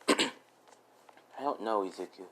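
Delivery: very slow, soft, drawn-out sad reply; a touch of tearful hush; slow sad murmur. Retold or imitated. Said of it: "she's like".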